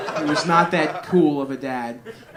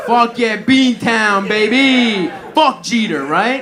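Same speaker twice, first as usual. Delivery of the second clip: loud, higher mock Boston cheer; Boston hype shout; 6 semitones higher, 10 dB louder, slower than usual. Comic hypes the Boston guy with a loud cheer. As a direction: pump up the crowd like a Boston bro.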